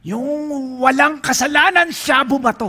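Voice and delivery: loud and high, proclaiming; preaching emphasis. Real, not acted. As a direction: raise the voice to proclaim it. (malakas na pagpapahayag)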